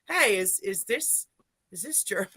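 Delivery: replaying his own puzzled, amused question; laughing disbelief. In the attic, asking Marlene about the voice, laughing. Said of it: "I'm like".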